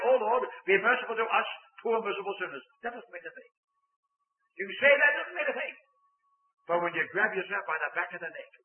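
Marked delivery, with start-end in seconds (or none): 0.1-2.6 offhand recited prayer, no weight behind it; glib rote prayer. Shown as a demonstration. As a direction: toss it off like a habit. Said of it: "it's easy to say".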